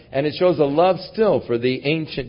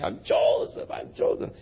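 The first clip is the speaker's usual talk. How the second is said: hushed whisper; 4 semitones lower, 5 dB quieter than usual. Retold or imitated. Joseph reveals himself, voice hushed.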